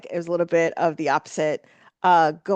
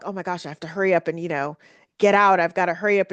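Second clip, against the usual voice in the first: mock hurried; faster than usual. Imagined rush to leave restaurant.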